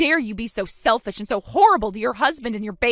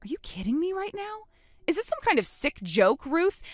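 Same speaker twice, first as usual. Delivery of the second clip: incredulous outrage; 5 semitones higher than usual. Acted. Outraged at the mother's confession.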